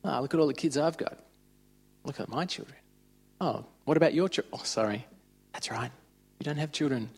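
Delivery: mocking taunt. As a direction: sneer at her like a cruel rival, lightly acted. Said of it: "just gave her heaps that she couldn't have kids".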